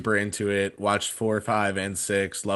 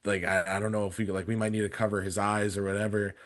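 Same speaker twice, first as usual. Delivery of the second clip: hushed worried parent aside; soft, secretive warning; a hint of whispering parents; 2 semitones lower, 7 dB quieter than usual. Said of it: "whispering before it started".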